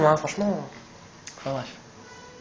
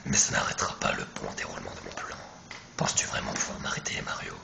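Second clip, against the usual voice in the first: very low whispered villain threat; slow theatrical villain menace; 11 dB quieter than usual. Acted. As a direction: taunt the hero like a boss. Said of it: "ma grosse voix de méchant". (grosse voix de méchant menaçante)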